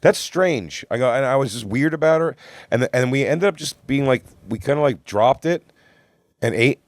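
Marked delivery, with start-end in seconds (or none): 0.0-0.8 much higher, disbelieving rant; mock outrage, pitched up; what-the-hell disbelief; incredulous. Retold incredulous rant at Lisa.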